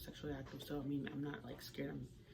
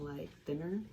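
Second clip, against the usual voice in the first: talking with a mouth full of cereal; eating cereal. Real, not acted. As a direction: speak around a mouthful of cereal. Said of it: "Sorry, I'm eating cereal".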